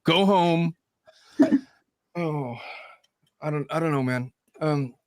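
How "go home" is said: higher-pitched playful send-off, slowing down; mock dismissal. Host sends sick colleague home, mock dismissive. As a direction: shoo them away in mock exasperation.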